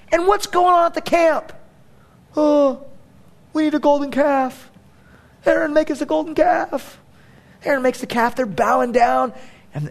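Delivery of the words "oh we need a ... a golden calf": mock demand. People demanding a golden calf.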